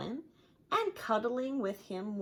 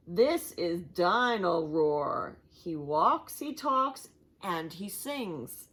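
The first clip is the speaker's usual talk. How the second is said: showman pitch; 4 dB louder, slower than usual. Acted. Mister Fox presents toy.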